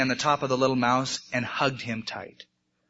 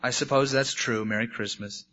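softer, sinking disappointed goodbye; tearful resignation; 4 semitones lower, 6 dB quieter than usual. A narrator's reading. Turned-away bunny bids the beaver goodbye, quietly tearful. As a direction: let it drop away, quietly hurt. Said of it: "his eyes filling with tears".

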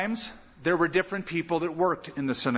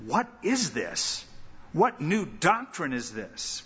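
amazed; slower than usual. Acted. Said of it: "they questioned among themselves, saying".

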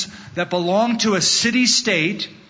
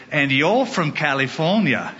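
lightly imitated British maitre d'; a touch of a mock English accent. Maitre d' in England seeing through the American guest, in a lightly put-on English accent. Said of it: "I ordered in an English accent".

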